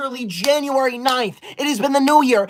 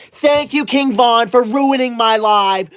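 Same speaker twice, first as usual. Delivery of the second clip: sarcastic thanks; 4 dB louder, slower than usual. Acted. Mock thanks for ruined live.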